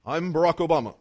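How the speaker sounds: a hint of Obama's measured cadence; lighter Obama impression. Preacher repeating the President's greeting, lightly imitated. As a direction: repeat the name in a mild presidential voice. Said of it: "has to talk like that".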